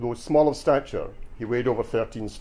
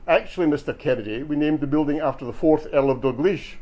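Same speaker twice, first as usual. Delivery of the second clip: lightly put-on posh English accent; a measured correction in mock-posh English; dead posh; 4 semitones higher than usual. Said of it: "dead posh-like".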